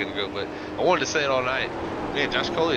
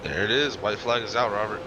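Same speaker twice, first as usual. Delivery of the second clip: motorsport commentator. Acted. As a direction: lively race call to the checker. Calls the final lap.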